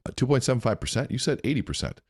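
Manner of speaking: high, loud protest at the figure; retelling his upset disbelief at the commission. Retold or imitated. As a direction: object as if cheated on the pay. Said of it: "And I was upset".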